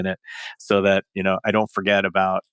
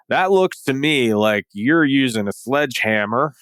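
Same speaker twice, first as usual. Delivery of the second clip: put-on Boston accent; 4 semitones higher than usual. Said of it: "I don't know why I'm doing this accent".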